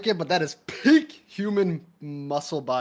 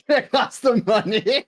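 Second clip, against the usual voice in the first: laughing, higher put-on voice; mock posh voice; 8 semitones higher, 5 dB louder, slower than usual. Friend echoes the price joke in a mock voice. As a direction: parrot it back in a silly higher voice.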